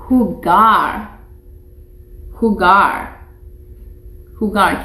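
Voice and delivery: teacher modelling jugar; Spanish word model. Shown as a demonstration. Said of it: "Can you say that for me?".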